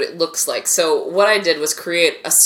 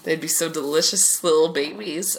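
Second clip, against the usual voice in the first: slightly tipsy, loose speech. Real, not acted. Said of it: "Now you can tell I'm getting drunk".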